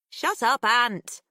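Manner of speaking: sharp, loud shut up; annoyed. Acted. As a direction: snap it at him to stop. Pip shoves him, annoyed.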